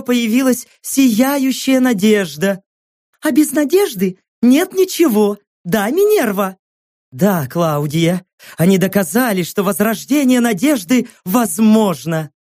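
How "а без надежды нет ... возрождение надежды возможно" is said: high, sugary presenter banter; chirpy on-air chat; cheerful TV hosts. Acted. Two hosts chatting.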